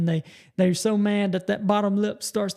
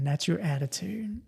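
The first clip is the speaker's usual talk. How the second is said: whisper; 5 dB quieter than usual. Real, not acted. Emphatic point about attitude.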